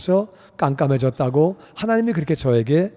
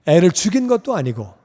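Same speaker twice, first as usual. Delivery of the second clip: ordinary delivery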